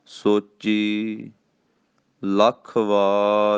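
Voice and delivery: ਲੱਖ stressed with a tight doubled kh; firm emphasis. Shown as a demonstration. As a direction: hit ਲੱਖ hard and firm. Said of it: "ਇਹ ਕੱਸ ਕੇ ਬੋਲਣਾ".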